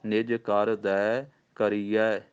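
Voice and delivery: slow recitation, pause after ਕਰ; teacher models the pause; pause demo. Shown as a demonstration. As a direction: recite ਨਿਜ ਕਰ ... ਦੈ ਕਰੀਐ slowly with a break after ਕਰ. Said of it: "ਇੱਥੇ ਵਿਸਰਾਮ".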